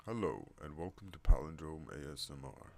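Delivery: loud, swooping put-on welcome; announcer greeting. Shown as a demonstration. Vlogger welcoming viewers to the channel, loud announcer voice. Greeting tried in two registers.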